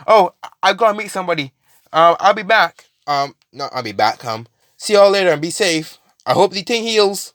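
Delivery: quick, high, flustered excuses; flustered Deku. Retold or imitated. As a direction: hurry out with nervous excuses. Deku scurries off excusing himself.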